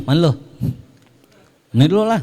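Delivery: mock-surly husband to his wife; loud, brusque and impatient, played for laughs; curt, snappish. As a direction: snap at the wife rudely. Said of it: "Ketus sama bininya".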